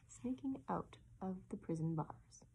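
whispered, as if sneaking along; hushed aside. A narrator's reading. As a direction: drop to a secretive whisper. Hushed aside about the sneaking parrot.

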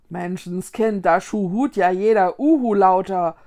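loud exasperated complaint; grumbling scold. Acted. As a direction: grumble at the useless ghosts. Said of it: "grummelte Vicky".

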